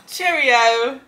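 playful British sign-off; British accent. Pretend. Guest ending the tea party, playful British accent. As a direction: say farewell in mock-British. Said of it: "Can you do a little British accent for me?".

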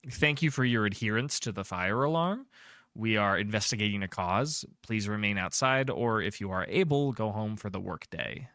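understated official announcer; lightly formal, even public announcement; intercom announcement. Acted. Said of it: "there's an, an announcement on an intercom".

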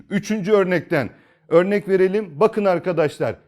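ordinary delivery

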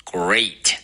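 Great with a full, drawn-out "ay"; careful model of Great, vowel held long; full diphthong. Shown as a demonstration. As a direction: curl the R in Great, then open the diphthong fully. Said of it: "非常的饱满".

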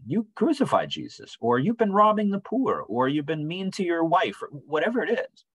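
high, intense warning; fiery preaching. Retold or imitated. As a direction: preach it with fire. Voicing John's fiery warning.

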